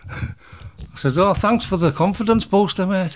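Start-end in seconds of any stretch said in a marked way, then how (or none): 1.2-3.2 higher-pitched mock gratitude; sarcastic thanks. Boxer to teammate who praised his opponent, sarcastic. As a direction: lift the pitch in wry, put-on thanks.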